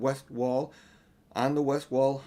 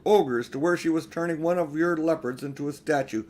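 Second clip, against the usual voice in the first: eager battle report; 3 semitones higher, 3 dB louder than usual. Acted. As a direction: tell it fast, still fired up from the fight. Peter reports the battle to Aslan.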